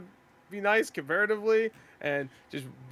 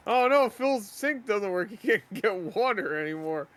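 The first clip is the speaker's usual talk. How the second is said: mock pity; 4 semitones higher than usual. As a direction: gush over the poor streamer. Mocking a sympathetic donor.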